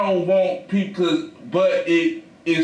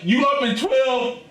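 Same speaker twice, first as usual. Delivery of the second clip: high exasperated questioning; 5 semitones higher than usual. Retold or imitated. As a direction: demand what she is doing, half laughing. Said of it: "I'm like".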